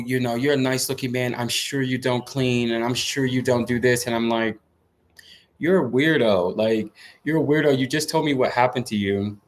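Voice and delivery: talking with a sore mouth; sore jaw from braces. Real, not acted. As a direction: speak gingerly, jaw aching. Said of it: "so my mouth hurts".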